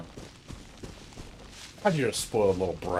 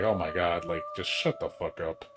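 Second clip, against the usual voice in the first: fed-up groan; 4 semitones lower, 4 dB quieter than usual. Retold or imitated. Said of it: "it's just like".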